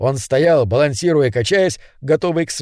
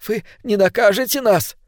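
fearful plea; 6 semitones higher than usual. Acted. Frightened Swanson crawling, pleading.

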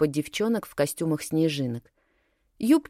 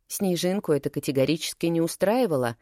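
ordinary delivery

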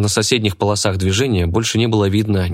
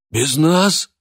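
a touch of surprise, pitched higher; mildly taken aback; surprised; 9 semitones higher than usual. A narrator's reading. Fat henchman surprised the boss went alone, a touch of surprise. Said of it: "удивился толстяк".

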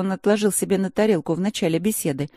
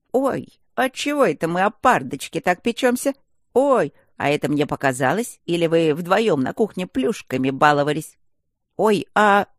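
teasing gargoyle; 4 dB louder than usual. Acted. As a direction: needle them with mock innocence. Gargoyle teases rector.

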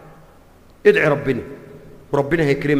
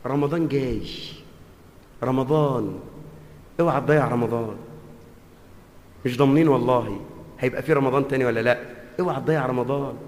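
soft earnest warning; 6 semitones lower, 5 dB quieter than usual. Acted. Soft warning about Ramadan.

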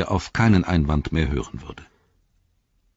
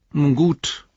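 raised, higher answer; said aloud; 11 semitones higher, 4 dB louder than usual. A narrator's reading. Hero lowering his sword, answering aloud. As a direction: say it out loud, pitched up. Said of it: "antwortete er laut".

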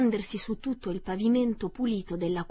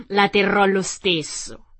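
laughing; 8 dB louder than usual. Acted. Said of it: "disse la strega ridendo".

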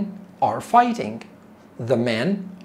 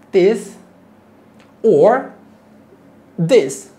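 excited cheer; 5 semitones higher, 6 dB louder, much slower than usual. Shown as a demonstration. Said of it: "This is called raise the roof".

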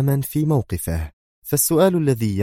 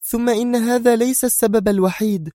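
tense. A narrator's reading. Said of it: "ثم ابتعدت عنه في توتر".

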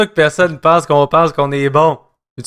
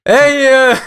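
higher, drawn-out mock opener; co-host impersonation; 6 semitones higher, 4 dB louder than usual. Teasing co-host with his own opener, mocking impersonation. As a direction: hold the filler long, mimicking him. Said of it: "Tu m'as mieux que moi".

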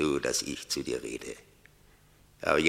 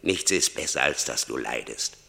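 loud, raised-pitch reproach; harsh rebuke; 3 semitones higher, 7 dB louder than usual. Acted. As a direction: come down hard on the sufferer. Death scolds suffering Franz. (laut und unerbittlich)

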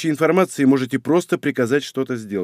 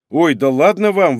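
louder, playfully indignant; mock indignation; 5 semitones higher, 7 dB louder than usual. A narrator's reading. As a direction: protest as if offended. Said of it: "возмутился я". (наигранное возмущение, громче)

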